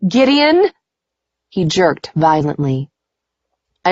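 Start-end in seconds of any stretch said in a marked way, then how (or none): 0.1-0.7 high, urgent cry of his name; alarmed call. A narrator's reading. Woman to man in nightmare, alarmed. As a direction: call out to wake him. Woman calling to wake him.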